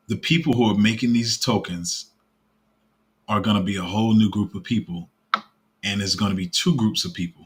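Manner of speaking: deliberate, with long pauses between phrases; slowed-down statement. Real, not acted. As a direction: spell it out phrase by phrase, pausing after each. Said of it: "Let me slow this statement down".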